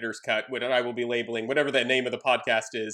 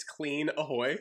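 soft clean ahoy; 3 semitones higher, 6 dB quieter, slower than usual. Shown as a demonstration. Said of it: "top us off with a nice".

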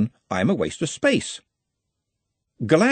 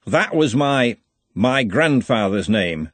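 halting, shaken dwarf voice; stuttering; 3 dB louder, slower than usual. Acted. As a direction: stumble over the words in shock. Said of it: "Glang stuttered".

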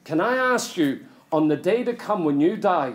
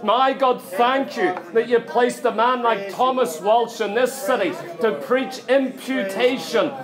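closing prayer. Acted. Preacher leading the congregation in prayer, building fervour. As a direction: pray over the church with growing fervour.

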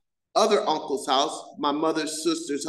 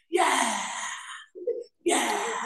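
triumphant yell; 7 semitones higher, 4 dB quieter than usual. Retold or imitated. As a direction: cheer at the microphone. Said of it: "and I go".

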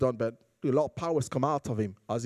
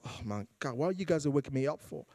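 groggy Jesus; 6 dB quieter than usual. Retold or imitated. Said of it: "imagine the poor Jesus waking up".

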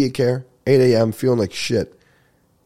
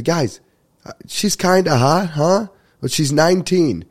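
raised, high-pitched mock yell; imitated announcement, pitched up; retold scream; 6 semitones higher, slower than usual. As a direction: call it out like a DJ to a crowd. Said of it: "when he screamed that".

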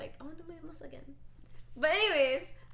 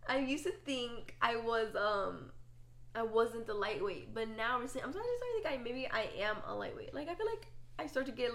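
slowed-down repeat. Real, not acted. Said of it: "You said it so fast".

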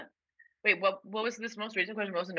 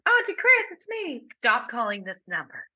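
mock Todd Cranes; 3 semitones higher than usual. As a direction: call in like a prankster. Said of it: "impersonating Todd Cranes".

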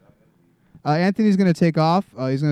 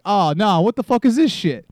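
mock dismay; 6 semitones higher, 5 dB louder than usual. Moviegoer dismayed at helicopter crew.

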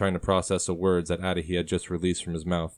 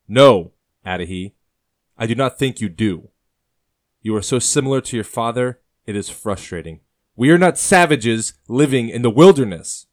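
loud, higher, frustrated scolding; 4 semitones higher, 9 dB louder than usual. A narrator's reading. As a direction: raise your voice at him, much louder on the first and last words. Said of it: "Thomas says loudly".

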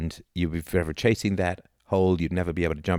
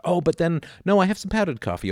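mock relief; 11 semitones higher than usual. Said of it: "It's like".

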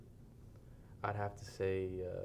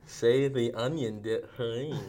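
slow, garbled through a mouthguard; wearing a mouthguard; 4 dB louder, slower than usual. Real, not acted. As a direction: drool the words past a guard. Mouthguard game reading.

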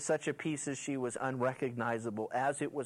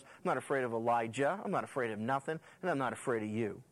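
low-key, understated smug boast; 4 semitones lower, faster than usual. Acted. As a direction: play her cool and unimpressed. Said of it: "And she's so smug".

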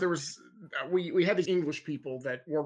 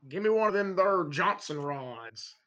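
lightly put-on country drawl, slower; mock country accent; slower than usual. Teasing a friend about garage talk, mock slow country accent. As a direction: play a country garage customer, slowly. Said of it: "more of a country tone".

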